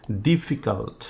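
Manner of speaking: ডিফিকাল্ট split into three separate beats; broken into syllables. Shown as a demonstration. Teacher counting syllables for students, ডিফিকাল্ট broken into three beats. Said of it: "তিনবার".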